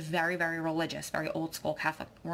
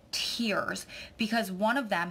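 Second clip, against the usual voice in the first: slow whisper as tears come; choking up; slower than usual. Real, not acted. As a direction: voice catching with real emotion. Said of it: "I'm gonna get emotional".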